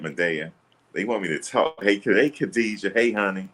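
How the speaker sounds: usual speaking voice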